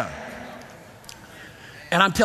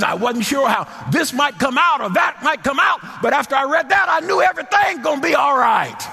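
preaching shout; 6 semitones higher than usual. Real, not acted.

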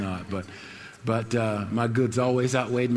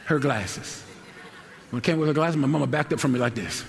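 laughing; 4 semitones higher than usual. Real, not acted. Laughing telling the miracle.

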